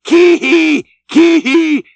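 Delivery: high, loud yelping yell. A narrator's reading. Daggoo driving his rowers in the chase, high loud yell. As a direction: yelp it out fierce and wild. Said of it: "yelled Daggoo".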